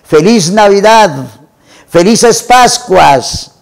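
slow, high, drawn-out holiday calls; joyful call to everyone passing by; retold shouting. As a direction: sing it out from the window, slowly. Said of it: "empezaba a gritar desde la ventana".

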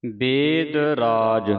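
slow, drawn-out measured chant of the line; scripture recitation. Shown as a demonstration. Teacher reciting a verse for students to follow, slow measured chant. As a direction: recite it slowly, holding the long vowels.

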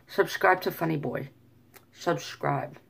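light attempt at an Irish accent; mildly imitated Irish. Shown as a demonstration. Vlogger trying accents on his channel plug, mild Irish.

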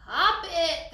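short high, loud chant-like yell; kids' scream. A narrator's reading. Kids urge Teresa at the car show, high excited shout. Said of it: "the kids screamed".

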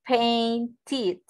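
"Painted" with the -ed as its own syllable; "Painted" in two clear syllables, ending fully voiced; ending pronounced. Shown as a demonstration. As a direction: sound out the -ted ending of "Painted". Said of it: "Cuando termine en D y en T, va a sonar así".

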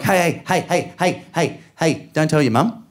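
mock-urgent string of "hey"s; panicked hushing. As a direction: hush a crying child before mum hears. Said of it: "I am not that good".

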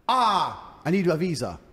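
a lightly acted girlfriend voice; mock girl voice. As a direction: play the needy girl asking for money.

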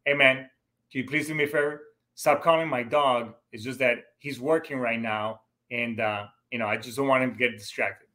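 polite and even, a courteous ask; calm, courteous request to a stranger. Shown as a demonstration. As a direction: ask nicely, no edge. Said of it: "I'm gonna say it, just like I said it to him".

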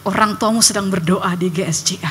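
tender voice. Retold or imitated. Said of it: "yang bilang".

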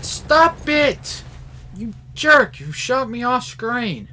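high, loud outraged shout; angry yell. Real, not acted. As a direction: yell at the cheater. Getting shot off screen.

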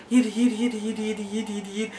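mumbled yid-yid chatter, trailing off softly; nattering imitation. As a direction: let the mimicked babble fade away. Mimics friend's rambling complaint fading out.

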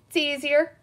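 lightly voiced cowboy sheriff; reply with a touch of cowboy twang; cowboy drawl. A narrator's reading. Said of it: "he talks cowboy talk".

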